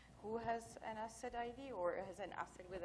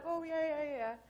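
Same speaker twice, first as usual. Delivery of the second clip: eager helper; 7 semitones higher, 6 dB louder than usual. Retold or imitated. Overeager helper agrees eagerly.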